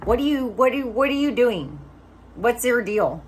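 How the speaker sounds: lightly voiced friend, baffled and insistent; insistent amazed question. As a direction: push him to demand an answer. Friend pressing her, amazed.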